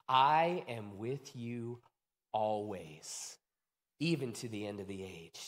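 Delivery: grave authority, slowing and softening to the end; solemn Jesus. Acted. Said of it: "and he says this".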